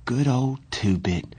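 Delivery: a lightly acted tremble in the voice; quavering. Johnny, shivering, remembering his friend with a mild quaver. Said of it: "he said in a quavering voice".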